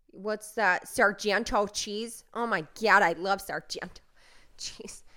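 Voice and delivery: broad Wisconsin accent, punchy. Shown as a demonstration. Podcaster showing off her silly accents, Wisconsin accent. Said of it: "the Wisconsin accent".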